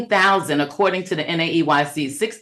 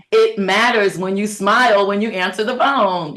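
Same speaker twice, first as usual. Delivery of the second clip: higher, upbeat smile in the voice; smiling; 4 semitones higher than usual. Shown as a demonstration. Coach showing staff how to answer the phone, smiling. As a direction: say it through a smile.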